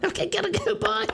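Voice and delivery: put-on high Australian accent with laughter; Australian son. Australian son answering his dad, Australian accent. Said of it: "my son that was born in a different part of the world".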